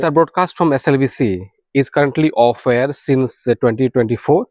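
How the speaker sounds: reads each English word out slowly and deliberately; slow careful reading. Shown as a demonstration. Reading a viewer's email aloud to listeners, slow and careful. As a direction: spell out the message slowly for the audience.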